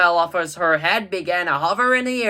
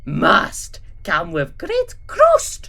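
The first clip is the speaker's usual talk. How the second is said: put-on slow, heavy villain accent; Gru's voice; 3 semitones higher, much slower than usual. Gru correcting Drew with a slow reveal. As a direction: draw out the punchline deadpan.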